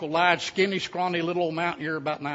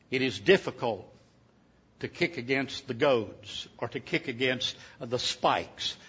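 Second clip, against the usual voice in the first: voice of God; 6 semitones lower, 7 dB quieter than usual. Retold or imitated. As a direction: speak low and grave as the divine voice. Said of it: "this is what he said".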